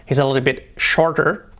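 slow "bit" with the I like an E; slow vowel demo. Shown as a demonstration. Teacher slows down to show "bit". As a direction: say "bit" slowly, I close to E. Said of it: "con la I como una E".

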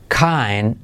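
"kind" stretched as "kain"; D left out. Shown as a demonstration. Teacher showing the silent letter, "kind" without D. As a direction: end "kind" on the N. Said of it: "No se dice la D".

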